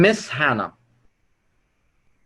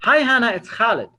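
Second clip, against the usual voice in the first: higher, familiar hello as if to a friend; friendly greeting; 4 semitones higher, 4 dB louder than usual. Shown as a demonstration. Caller opens with a prospect like friends talk, friendly and familiar. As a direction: greet them as someone you already know. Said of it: "Friends talk like this".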